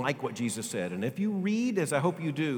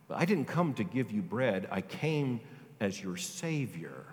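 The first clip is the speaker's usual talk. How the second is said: tender hushed voice; 3 semitones lower, 4 dB quieter than usual. Acted. Gentle voicing of Jesus.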